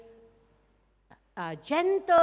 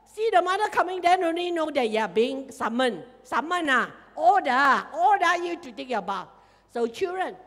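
ordinary talk

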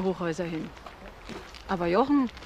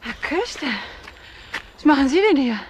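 louder, startled question; surprised; 4 semitones higher, 5 dB louder than usual. Acted. Mother surprised to meet the detective, startled. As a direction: caught off guard, loud.

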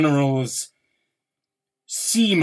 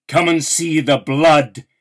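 louder, COME thrown out like a demand; forceful call; 2 semitones higher, 5 dB louder than usual. Acted. Poet confronting his readers with the war, forcefully. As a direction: force the listener to look. Repeated poem refrain, climax.

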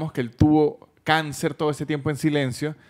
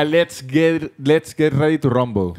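louder, slow boxing announcer call; boxing ring announcer; 5 dB louder, slower than usual. Pretend.

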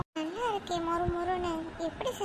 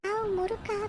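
pleased surprise, pitched up; delighted; 3 semitones higher than usual. Acted. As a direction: squeal a little at a treat. Child delighted at getting snacks.

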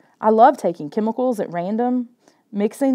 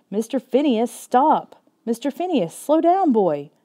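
calling out to the dog; 5 semitones higher than usual. Acted. Dog dragging him down street.

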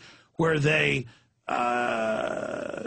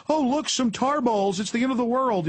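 hammed-up end-of-the-world panic; mock hype; 10 semitones higher than usual. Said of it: "hyping it".

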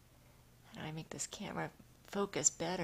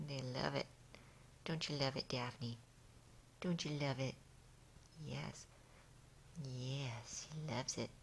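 low, gentle murmuring to a cat; contented low cooing; tender pet talk; 4 semitones lower, 4 dB quieter than usual. Real, not acted. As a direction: soothe the cat in a lowered pitch. Contentedly massaging the cat's ear.

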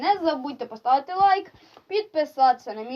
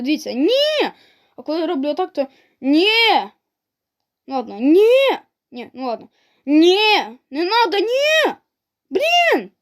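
squeaky cries; 3 semitones higher than usual. Real, not acted. Losing gamer shows his squeaky voice to viewers. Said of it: "голос такий пісклявий".

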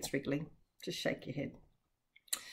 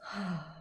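soft gasp; 6 dB quieter than usual. Shown as a demonstration. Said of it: "It might make you sigh".

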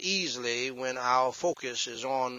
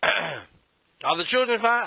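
slow asking spouse; 8 semitones higher, 10 dB louder, slower than usual. Retold or imitated.

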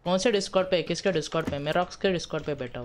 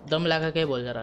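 louder, urging; raised voice; 6 dB louder than usual. Real, not acted. Gamer urges teammate on Discord, louder. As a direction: lean on it like a coach.

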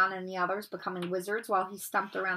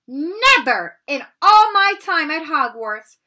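loud, slow, higher outraged cry; shocked outrage; 7 semitones higher, 12 dB louder, slower than usual. Acted. McGonagall confronts Harry after his dive, shocked and loud. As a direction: scold him in disbelief. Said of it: "almost speechless with shock".

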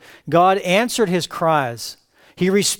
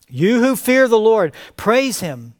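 1 calling to praise; 5 semitones higher, 3 dB louder than usual. Acted. Psalmist calls the assembly to praise.

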